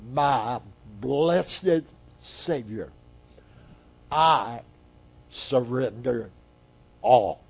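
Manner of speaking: slow, spaced-out recital of a hymn; measured, reverent hymn lines; hymn recitation. Acted. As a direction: recite each phrase slowly and deliberately. Reciting an old hymn's words.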